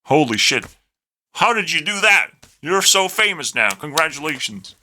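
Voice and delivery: sarcastic high-pitched awe; mock amazement. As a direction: gush in mock admiration, high then dropping. Mocks praise of American fame.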